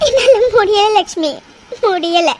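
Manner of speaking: broken, tearful repeating of முடியல; breaking down. Acted. Mother breaks down to her friend, tearful. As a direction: sob out that you can't go on.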